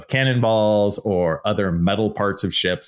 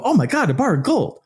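much higher, gasping wonder; mock amazement; 13 semitones higher, faster than usual. Imagined listener gasping at gold bar, mock amazed. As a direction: gush like someone seeing gold first time.

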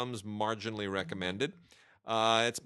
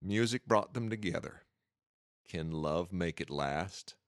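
country music voice; 3 semitones lower than usual. Shown as a demonstration. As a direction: read the tagline like a country music announcer, lightly. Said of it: "do this with my country music voice".

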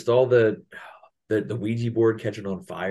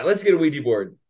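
high mocking imitation of an oblivious guy; mock him as clueless and eager; high goofy impression of the boyfriend; dumb boyfriend voice; 7 semitones higher, 3 dB louder than usual. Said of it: "he's like".

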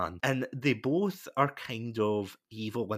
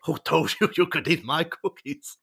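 imitating raging Arnie; 6 semitones higher, 7 dB louder than usual. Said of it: "Arnie's just raging".

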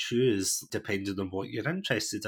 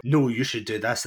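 blunt correction, a touch louder; blunt native speaker; 2 semitones higher, 5 dB louder than usual. Retold or imitated. Native speaker correcting a learner, imitated bluntly. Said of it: "they're very blunt".

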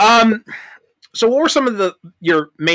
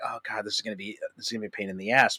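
mock dread; 6 semitones lower, 12 dB quieter, much faster than usual. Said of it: "I'm like".

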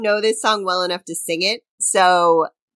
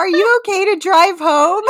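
laughing; 9 semitones higher, 4 dB louder than usual. Real, not acted. Joking she's drunk on laughter.

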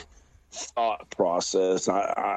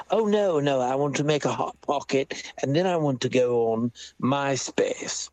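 put-on posh English accent; 3 semitones higher than usual. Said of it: "that's probably a little too posh".

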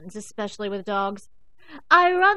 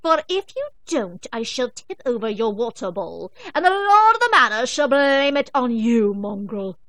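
regal bellow; 3 semitones higher, 10 dB louder than usual. Acted. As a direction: bellow orders like a cruel queen. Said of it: "Ginger would bellow".

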